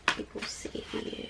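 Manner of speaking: whispery, absorbed murmur; very soft, toneless mumble; murmured to self. Real, not acted. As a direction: repeat it almost soundlessly to yourself. Murmuring the question over the cards.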